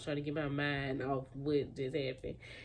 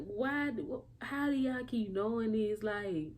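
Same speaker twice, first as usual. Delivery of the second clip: exasperated disbelief; 5 semitones higher than usual. Retold or imitated. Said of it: "And I was like".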